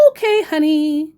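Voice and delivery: scammer voice. Retold or imitated. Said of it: "quoting scammer".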